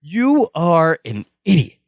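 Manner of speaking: slow, measured mock scolding; storming in. Podcaster as Jennifer storming in on Larry, deliberate mock anger. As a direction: spell out the insult word by word. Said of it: "Jennifer just storms in right up to him".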